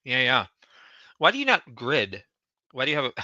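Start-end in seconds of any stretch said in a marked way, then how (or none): 1.2-3.2 talking through a mouthful of food; chewing while asking; mouth full. Real, not acted. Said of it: "sorry to talk with my mouth full".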